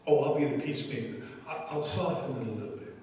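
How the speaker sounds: rattled off fast and soft, a peacemaker smoothing things over; quick mock peacemaker. Philip as imagined by the preacher, quick, soft peacemaking aside. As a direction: hurry it out like someone soothing a quarrel. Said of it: "This was Philip".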